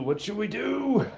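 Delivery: playful high repeat. Real, not acted. Asking the chat again, playful high voice. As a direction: lift it way up, teasing.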